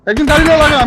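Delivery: urgent order. Real, not acted.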